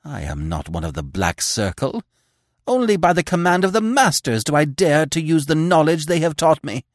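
frightened shaking voice; trembling fear. Acted. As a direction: shake as if feverish. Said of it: "shaking as if with an ague".

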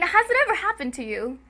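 rising, high TV-pitch question; infomercial voice. Acted. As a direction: ask it like a TV ad host. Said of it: "it's like an infomercial".

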